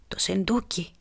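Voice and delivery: "σεντούκι" breathed out in a soft whisper; dying whisper. Acted. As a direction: whisper "σεντούκι" as if it were his last breath. Dying pirate reveals the secret. (ψίθυρος ετοιμοθάνατου)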